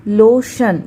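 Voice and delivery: लोशन said as lo-shun; pronouncing lotion. Shown as a demonstration. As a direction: model word लोशन, lo-shun. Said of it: "यहाँ पे देखिए".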